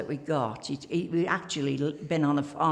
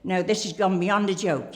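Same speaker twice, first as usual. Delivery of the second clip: worked up; 4 dB louder than usual. Retold or imitated. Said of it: "he was all worked up".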